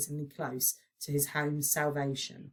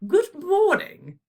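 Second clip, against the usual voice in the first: high, slow, stately queen greeting; calm regal queen; 14 semitones higher, 9 dB louder, much slower than usual. A narrator's reading. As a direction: greet them like a gracious queen, drawn out. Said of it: "she said calmly".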